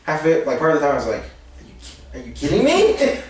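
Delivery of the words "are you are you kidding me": higher, laughing incredulous question; mock incredulity, pitched up; retold disbelief. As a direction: act out disbelief through a laugh.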